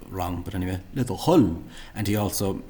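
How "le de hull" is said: "Hull" punched, with a rough ch-like H; mispronunciation imitation. Shown as a demonstration. Teacher mimicking the male speaker, ch-like start to "Hull". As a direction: copy a faulty, heavy H in "Hull". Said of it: "mispronounces what should be a".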